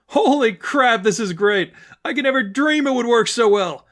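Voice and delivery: a villain-hunter thrilled her trap worked; gleeful delight. Acted. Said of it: "Stephanie's smile turned to laughter".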